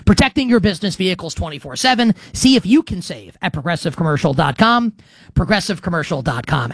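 smooth sponsor read, steady pace. Acted. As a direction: read it like a radio ad spot.

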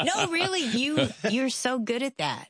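laughing. Real, not acted. Host teases co-host, laughing.

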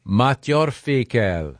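slow French pronunciation. Shown as a demonstration. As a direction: say it carefully in a French accent. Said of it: "what is the French pronunciation".

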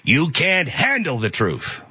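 slow, clipped movie line delivery, lightly done; a hint of Nicholson's courtroom snarl; lightly imitated Jack Nicholson line. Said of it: "I'm turning into Jack Nicholson".

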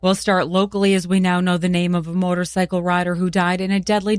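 steady bright newscaster read; news read. Acted. Morning news anchor reading local headlines, even broadcast delivery.

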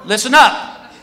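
public announcement. Retold or imitated. Security guard to whole airport line, announcing. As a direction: address the entire line like an announcement. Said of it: "to this whole security line".

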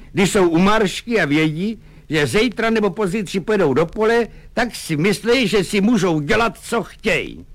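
high, pained self-justification; Lukáš, troubled officer. Acted. Lieutenant justifying the punishment to his sergeant, high and strained. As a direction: plead your case like a martyr.

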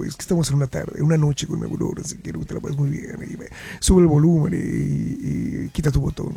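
voz baja de locutor nocturno; late-night radio voice. Shown as a demonstration. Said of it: "voy a empezar a hablar así".

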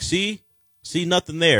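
lightly mocking, high-pitched "told you so"; mock vindication. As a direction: imitate people crowing, pitched well up. Mock voice of people dismissing it.

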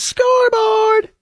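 drawn-out, very high victory crow; mock gloating scoreboard. Gloating host crowing over the Canadians. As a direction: crow it slow and high like a sports fan. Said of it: "I just go".

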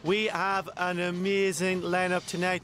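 high, wobbly show host fighting tears; tearful TV host. Acted. A host signing off the last show, close to tears. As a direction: keep breaking up as you sign off. Presenter tearfully closing the season.

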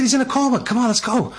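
high, pleading "He's in a coma"; urgent plea. Retold or imitated. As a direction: beg him to come now, urgently. Urging the priest to come.

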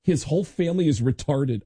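lightly voiced Lars, casual; Lars impression. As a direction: play Lars showing off his friend. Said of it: "he goes".

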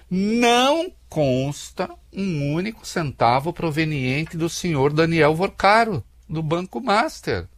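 slow, emphatic reading of a denial; categorical statement. Retold or imitated. Reading the company's note aloud, categorical. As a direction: spell out the denial with deliberate weight. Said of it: "afirma categoricamente".

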